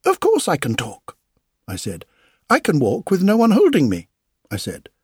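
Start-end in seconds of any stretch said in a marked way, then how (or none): 0.1-1.2 proud exclamation. A narrator's reading. Puppet proudly answers crowd. 2.5-4.1 proud boast. A narrator's reading. Puppet boasts to crowd.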